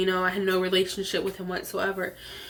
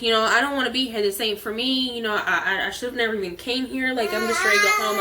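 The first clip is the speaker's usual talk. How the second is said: upset pleading; 3 dB louder, faster than usual. Retold or imitated. Retold self pleading, upset.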